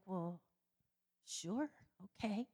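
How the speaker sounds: soft, hesitant, puzzled agreement; bewildered. Retold or imitated. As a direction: agree slowly, unsure what just happened. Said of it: "And I'm just bewildered".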